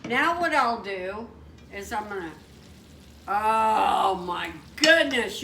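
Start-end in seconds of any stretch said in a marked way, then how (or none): 3.3-5.4 excited shout. Real, not acted. Excited at sight of pasta.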